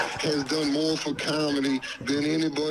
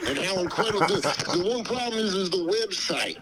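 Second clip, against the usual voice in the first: Dave Chappelle voice; 4 semitones higher than usual. Pretend. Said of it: "You sound just like him".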